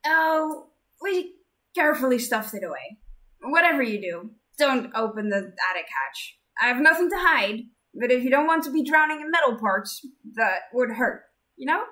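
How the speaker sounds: bubbly oversharing inventor; loud excited girl. Acted. Idas voiced loud.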